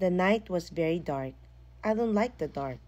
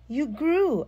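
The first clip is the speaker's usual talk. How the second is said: high, loud startled cry; shocked yell at the grown monster; 9 semitones higher, 7 dB louder than usual. A narrator's reading. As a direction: blurt it out loudly in shock. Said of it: "I yelled".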